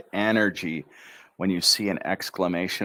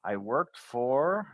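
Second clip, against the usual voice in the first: energetic intro; 2 semitones higher, slower than usual. Shown as a demonstration. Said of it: "Give it the energy".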